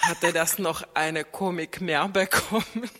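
telling it through a laugh. Real, not acted. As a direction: let the laughter spill into the punchline. Erzählt lachend von der Kinoszene. (erzählt die Pointe lachend)

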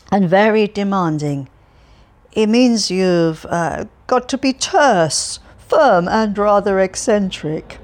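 put-on loud, chatty, cheerful old man voice; cheerful Alferov. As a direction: prattle on brightly to a stranger.

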